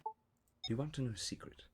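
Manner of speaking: put-on soft, measured traditional accent; put-on non-American accent. Actor restarting out of America, careful put-on accent. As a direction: hold back, softly, in a non-American accent. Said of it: "just read it no accent".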